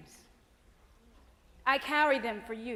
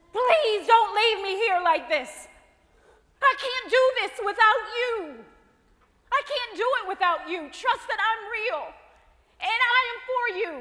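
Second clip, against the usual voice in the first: higher and louder, pleading hard; desperate plea; 6 semitones higher, 5 dB louder than usual. Acted. Hope begging the woman to come with her, high and loud. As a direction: beg her not to leave you behind.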